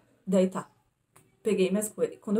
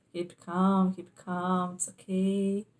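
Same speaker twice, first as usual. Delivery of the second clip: reassuring attendant; much slower than usual. Retold or imitated.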